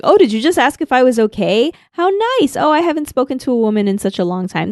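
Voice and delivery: lightly voiced goofy janitor, a high squeak on "How nice"; half-hearted impression of a lonely silly man. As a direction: play him a touch silly and starved for company. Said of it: "And he's like".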